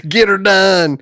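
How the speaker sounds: high, hammed-up redneck shout; redneck catchphrase. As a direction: belt it like a cable guy. Larry the Cable Guy catchphrase.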